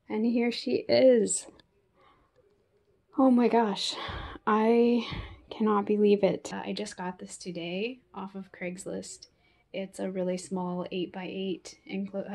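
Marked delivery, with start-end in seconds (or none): 3.2-6.5 overjoyed. Real, not acted. Finding the lost tarantula.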